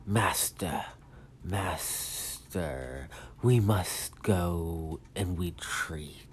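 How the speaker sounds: lightly voiced slow henchman; a hint of a ponderous servant; Kirigiri. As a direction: draw the words out solemnly, with long gaps. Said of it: "that's how I'm doing it for Kirigiri".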